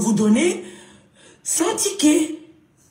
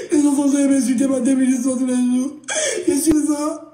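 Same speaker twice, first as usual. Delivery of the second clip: fake crying. Acted crying plea.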